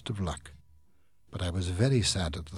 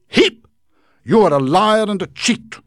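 high, loud ringing declaration; declaring; 13 semitones higher, 16 dB louder than usual. Acted. Micawber exposing Heep as a liar, loud and high. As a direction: call him out boldly. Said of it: "Mister Micawber declared".

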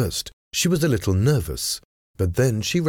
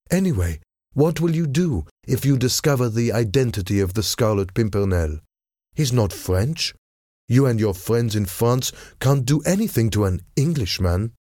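higher-pitched, lightly defiant challenge; 5 semitones higher than usual. Acted. Lady telling the envoy he cannot touch an Englishman, defiantly. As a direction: challenge him with mild scorn.

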